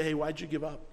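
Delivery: a loving father gently asking; the Lord gently corrects a believer, soft and loving; gentle correction. Retold or imitated. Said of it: "so lovingly and gently corrects us".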